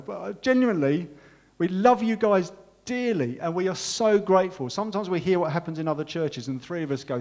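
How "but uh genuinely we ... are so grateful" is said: moved, near tears. Real, not acted. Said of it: "I'm gonna start crying now".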